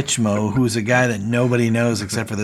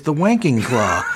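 mock shout; 4 semitones higher, 3 dB louder than usual. Gareth's punchline shouted.

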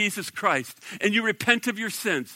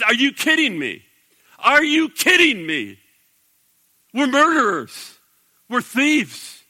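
incredulous outburst; 4 semitones higher than usual. Retold or imitated. Preacher voicing the thief defending Jesus, raised and disbelieving. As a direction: voice the thief who can't believe it. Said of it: "he kind of freaks out".

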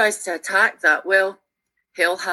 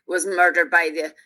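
put-on Northern Irish accent, lightly done; fake Belfast accent. Shaking off a scolding old soldier, fake Belfast accent. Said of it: "putting on a fake Belfast accent".

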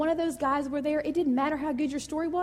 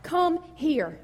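higher, louder mock royal call; king calling into the furnace, raised voice; 6 semitones higher, 4 dB louder than usual. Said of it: "and shouted".

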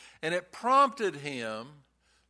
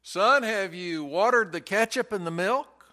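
slightly higher, mildly raised calling voice; mock yell downstairs; 4 semitones higher, 4 dB louder than usual. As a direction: imitate a father calling down a stairwell. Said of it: "the father would yell downstairs".

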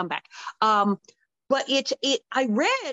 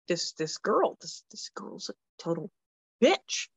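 stunned reaction; 3 semitones lower than usual. Retold or imitated. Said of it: "was stunned".

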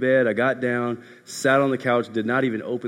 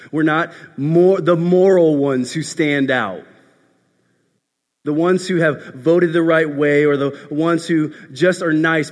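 raised, forceful sermon delivery easing toward the end; emphatic preaching; 5 semitones higher, 7 dB louder than usual. Real, not acted. Preacher tells church they are not moral standouts, emphatic. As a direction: press each denial on the listeners.

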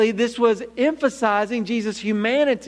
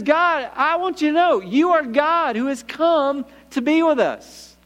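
higher, fervent declaration stressing GOD; stronger confession; 5 semitones higher than usual. Acted. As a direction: declare GOD with growing conviction. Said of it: "makes it stronger".

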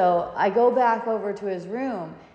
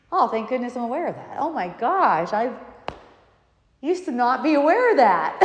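higher, fast and laughing with relief; happy, smiling; 4 semitones higher, 7 dB louder than usual. Shown as a demonstration. Teacher acting out the happy aware self, laughing. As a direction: gush with delighted relief. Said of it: "Happily, with a smile".

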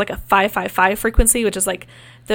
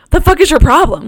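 louder, higher retold snap at the entities; mock-angry demand; annoyed yell, half-laughing; irritated outburst; 6 semitones higher, 6 dB louder than usual. Yelling at silent entities.

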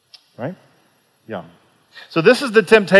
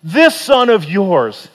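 scornful quote; 4 semitones higher, 3 dB louder, slower than usual. Acted. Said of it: "did you notice what he called him".

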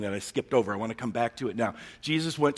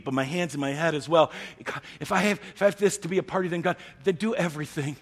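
eager Peter; 4 semitones higher, 5 dB louder than usual. Retold or imitated. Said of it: "Peter says".

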